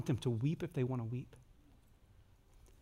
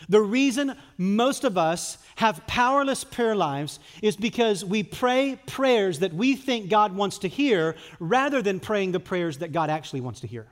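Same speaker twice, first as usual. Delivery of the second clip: higher and louder, driving the point home; full-force preaching; 5 semitones higher, 7 dB louder than usual. Acted. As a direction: preach it out with rising fire.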